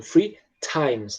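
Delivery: "Free times" with the T of "times" puffed out; aspirated T. Shown as a demonstration. Teacher demonstrating "Free times" to class, aspirated T. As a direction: let air burst softly after the T in "times". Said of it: "esse T ... ele é meio soprado".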